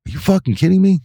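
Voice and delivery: acting out indignant astonishment; incredulous retort. Retelling his disbelief at being blamed.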